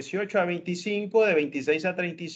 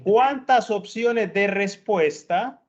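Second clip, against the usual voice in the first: slow, emphatic teacher question; 3 semitones higher, 6 dB louder, much slower than usual. Shown as a demonstration. Teacher repeats question to student.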